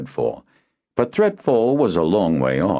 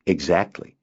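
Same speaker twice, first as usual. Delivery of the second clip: grinning. Acted. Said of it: "Kinden grinned".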